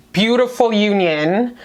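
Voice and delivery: slow, lingering delivery; drawn-out words. Real, not acted. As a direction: stretch out beautiful union slowly. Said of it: "I don't know why I said it like that".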